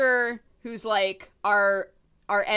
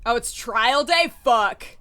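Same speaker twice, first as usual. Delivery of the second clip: dismayed; 4 semitones higher, 9 dB louder, slower than usual. Acted. Panicked realization as Falcon.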